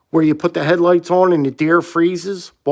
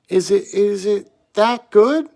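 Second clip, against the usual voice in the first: curious clerk; 5 semitones higher than usual. Retold or imitated. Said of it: "She goes".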